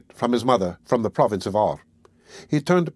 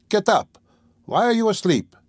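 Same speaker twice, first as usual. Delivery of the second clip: high, raised wake-up call; 10 semitones higher than usual. A narrator's reading. Servant waking the sleeping lodger, calling out in a high voice. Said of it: "she called to him".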